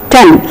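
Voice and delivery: "ten" with a short clipped e; short e sound. Shown as a demonstration. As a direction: keep the vowel of "ten" short. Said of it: "The short A".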